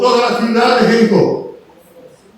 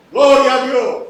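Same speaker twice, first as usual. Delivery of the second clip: higher, mildly raised cry of praise; retold praise shout; 4 semitones higher, 4 dB louder than usual. Healed man thanking God for sight, retold shout. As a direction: imitate a cry of thanks without full shouting. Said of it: "Después era".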